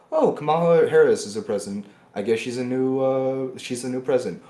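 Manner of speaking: mild mock shrug, matter-of-fact; shrugging acceptance. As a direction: say it like it's no big deal. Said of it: "look at everything equally and go".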